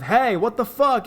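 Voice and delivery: loud, high shout up at someone above; angry yell. Retold or imitated. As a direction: yell it out in shocked anger. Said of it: "We immediately yell above with".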